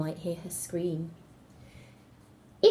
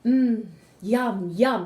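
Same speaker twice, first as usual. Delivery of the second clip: greedy wolf relish; 6 dB louder, much slower than usual. Acted. Wolf after swallowing grandma.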